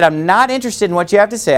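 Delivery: brisk, level and unbothered; calm refusal, a touch quick; calm, matter-of-fact. Shown as a demonstration. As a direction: say it flatly calm, no heat. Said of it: "I said it exactly like I'm saying it now".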